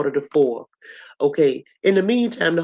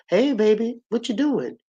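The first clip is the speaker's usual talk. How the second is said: higher, sweet and casual, hiding worry; acting cool; 7 semitones higher than usual. Mother calling her daughter, pretending to be fine. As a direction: sound breezy though you're upset. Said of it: "she tried to act cool".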